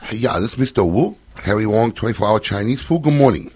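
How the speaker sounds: lightly put-on Asian American accent, broken English. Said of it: "Asian American accent".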